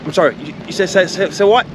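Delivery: a cheeky dog feigning confusion; confused dog. Retold or imitated. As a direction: play the dog pretending not to understand. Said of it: "your dog just looks at you like".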